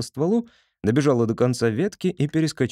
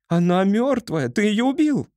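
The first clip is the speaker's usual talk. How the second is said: horrified cry; 10 semitones higher than usual. A narrator's reading. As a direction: shriek in horror over the dead bird. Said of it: "закричала вдруг Поня". (пронзительный крик ужаса)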